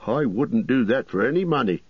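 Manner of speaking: incredulous, leaping up high in alarm; startled, high-pitched protest; scared innkeeper. A narrator's reading. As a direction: refuse like a frightened landlord. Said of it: "looking really scared".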